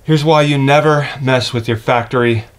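ordinary talk, nothing marked

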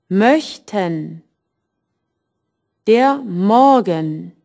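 Möchten and Morgen with the en ending almost silent; first syllable strong and the en kept nearly silent; swallowed en ending. Shown as a demonstration. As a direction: let the en ending barely sound. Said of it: "To pronounce the E N".

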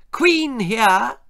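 high, regal Queen voice. Acted. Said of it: "said the Queen".

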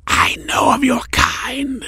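growled. A narrator's reading. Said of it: "the cloaked figure growled".

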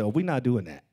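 sassy, rising refusal; mock tough self-talk; gangster self-talk. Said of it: "I talk like that to myself".

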